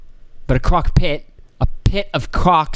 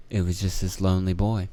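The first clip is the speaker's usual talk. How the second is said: mock official; 8 semitones lower, 7 dB quieter than usual. Acted exchange, lower reply voice.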